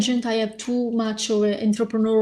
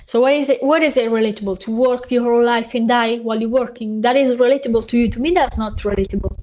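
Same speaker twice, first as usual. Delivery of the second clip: heated retort; 5 dB louder, faster than usual. Retold or imitated. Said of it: "and I'm like".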